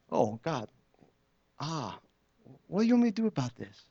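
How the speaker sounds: suddenly high, quick plea; startled prayer. Retold or imitated. Praying to God as the customer lingers, high and startled. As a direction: blurt it up high in surprise.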